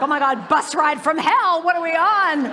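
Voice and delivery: loud, fast, laughing dread; hammed-up panic at a bus ride from hell; mock horror. Passengers to each other about the driver, in mock dread.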